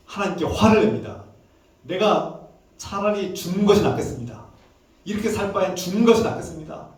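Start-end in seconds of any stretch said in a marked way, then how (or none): 1.8-6.9 retold angry outburst, climbing higher into the plea; angry crying out. Jonah crying out to God wanting to die, angry retold plea. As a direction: act out a desperate complaint, pitch rising. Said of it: "막 소리를 치면서 외치면서 하나님께 화를 내기".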